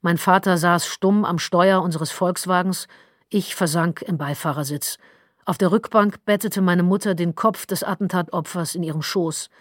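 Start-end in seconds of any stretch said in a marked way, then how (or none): none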